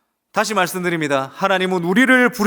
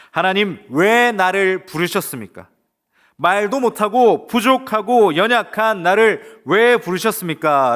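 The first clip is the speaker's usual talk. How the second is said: slow, pleading question to God; pleading prayer; 3 semitones higher, 4 dB louder, slower than usual. Acted. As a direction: plead with God, drawing each word out. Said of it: "라고 말입니다".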